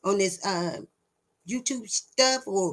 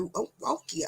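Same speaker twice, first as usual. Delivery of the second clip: breathy whispered I don't care; whispered dismissal; 3 semitones higher, 8 dB quieter, faster than usual. Real, not acted. Dismissing the book-bringers in a whisper. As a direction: drop to a whisper, brushing it off.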